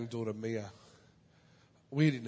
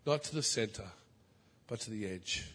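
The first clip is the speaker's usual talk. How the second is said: prayerful plea; slower than usual. Acted. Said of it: "You have to be willing to say".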